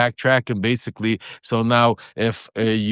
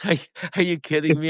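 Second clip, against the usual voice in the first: are you kidding me, higher; incredulous; 5 semitones higher, 3 dB quieter than usual. Real, not acted. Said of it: "incredulous outburst".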